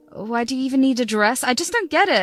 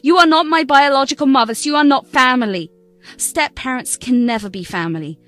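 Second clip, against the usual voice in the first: cold refusal. Acted. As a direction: shut the door in her face. Bride refusing stepmother the wedding.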